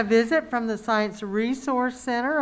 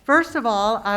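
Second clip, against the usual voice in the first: restarting louder so all can hear; 5 dB louder than usual. Real, not acted. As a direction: project the words over the mask. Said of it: "can you hear me okay with the mask on?".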